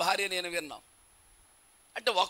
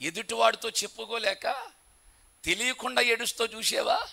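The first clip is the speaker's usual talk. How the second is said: normal talking voice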